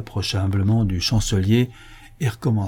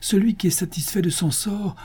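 high, airy recitation; resolute quoting; 10 semitones higher than usual. Acted. Absalom answering himself with the Mishnah, high and declamatory. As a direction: lift the saying up like scripture.

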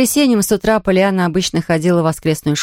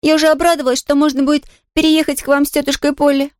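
put-on higher, bright girl's voice, nodding happily; eager little girl; 8 semitones higher, faster than usual. A narrator's reading. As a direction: play a delighted young girl. Pollyanna disappointed.

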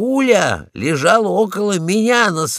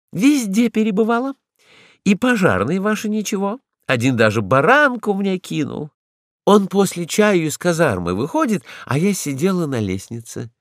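chatty lady dog; 5 semitones higher than usual. Acted. Ragulya boasts of roaming.

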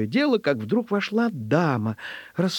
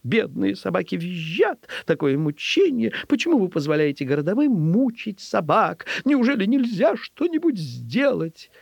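higher-pitched agitated lament; tearful, distressed lady; 6 semitones higher than usual. Acted. Upset lady begs official to save stray dogs, tearful distress. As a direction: plead in rising dismay. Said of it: "со слезами на лице".

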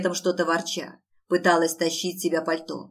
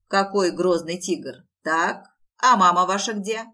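mock-scared dad; 6 dB louder than usual. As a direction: play scared for the child. Mock fright at son.

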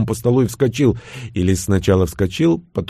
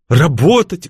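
storyteller voice; 6 semitones higher, 4 dB louder, slower than usual. Acted. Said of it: "голосом сказочника проговорил он".

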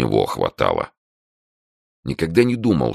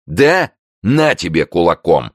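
high, louder taunting jab; mocking challenge; 5 semitones higher, 5 dB louder than usual. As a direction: throw it back as a dare. Brawler takes a punch offer.

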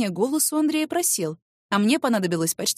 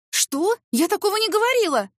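high, loud disbelieving cry; shocked outcry; 11 semitones higher, 3 dB louder than usual. Acted. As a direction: shriek it in disbelief. Shocked denial of his claim. (возмущённо, высоко)

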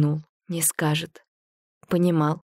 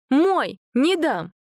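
high, loud possessive shout; guard him like a cub; fierce protective cry; 9 semitones higher, 3 dB louder, much slower than usual. A narrator's reading. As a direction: Masha blocking grandpa from the foundling, shouting. Masha shields foundling from grandpa.

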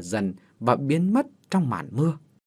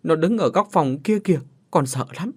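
tearful telling; 3 semitones higher than usual. Acted. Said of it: "vừa khóc vừa kể".

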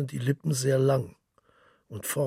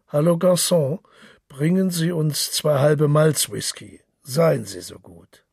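boisterous Gallagher; 4 semitones higher, 7 dB louder than usual. Acted. Gallagher orders drinks loudly.

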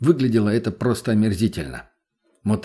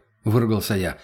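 usual speaking voice

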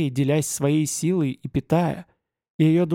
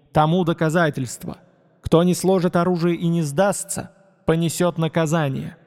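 booming proclamation. Acted. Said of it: "Мой голос разнёсся по всей округе".

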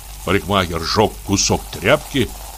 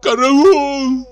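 high, loud terrified yell; shrieking караул; screaming for help; 4 dB louder than usual. Acted. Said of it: "закричал он".

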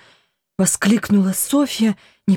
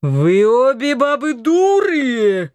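put-on drunken yell; 4 semitones higher, slower than usual. A narrator's reading. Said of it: "заорал Антон".

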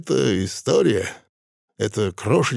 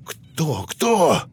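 loud question; 6 semitones higher than usual. Acted. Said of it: "спросил Фролич громко".

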